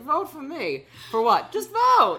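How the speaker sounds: high, loud squeaky character voice; silly clown. Pretend. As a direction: squeal it like a goofy candidate.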